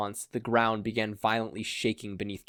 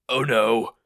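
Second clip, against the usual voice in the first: squeaked; 9 dB louder than usual. A narrator's reading. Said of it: "Machia squeaked".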